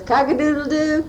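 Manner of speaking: put-on cheerful cock-a-doodle-doo for a toddler; playful rooster call; rooster crow. Shown as a demonstration. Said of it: "how does the rooster go".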